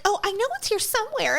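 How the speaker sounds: high-pitched fumbling voice; flustered customer. Retold or imitated. Unprepared customer at the DMV, flustered. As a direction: imitate someone hunting for lost paperwork.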